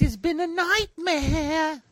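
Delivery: high, slow, loud dramatic voice; dramatic announcer. Pretend. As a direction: boom it like a trailer. Joking riff.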